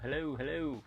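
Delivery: hello called up into the canopy; echoing under the umbrella. Real, not acted. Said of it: "kinda echoes under here".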